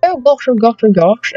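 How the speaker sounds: hammed-up posh aristocrat; posh accent. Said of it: "I sound like some posh aristocratic person".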